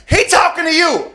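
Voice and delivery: high, slow, loud mock sass from the lady; drawn-out sassy retort; sassy woman. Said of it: "She's like".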